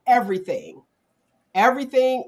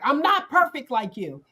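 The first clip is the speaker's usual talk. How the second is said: higher-pitched imitation of an upset daughter; retold daughter's complaint, pitched up; mock rant; 5 semitones higher than usual. Daughter ranting at her mother, mildly exasperated. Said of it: "she was having a rant or something".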